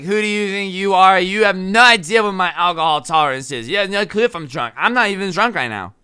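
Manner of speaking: mock a drunk insisting she is sober; drunk Karen arguing. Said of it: "use drunk person logic".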